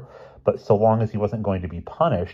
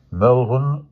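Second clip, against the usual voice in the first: higher, louder affected complaint; indignant interruption; 5 semitones higher, 5 dB louder than usual. A narrator's reading. Boy butting in on the headmaster, high indignant complaint. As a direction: butt in with outraged self-pity. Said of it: "George broke in".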